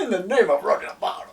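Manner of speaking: laughing mimicry.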